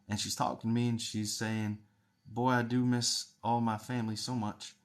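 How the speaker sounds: a light imitated Southern US accent. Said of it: "she's got a little bit of an accent".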